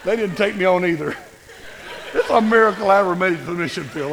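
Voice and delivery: laughing. Real, not acted. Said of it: "laughing at his own story".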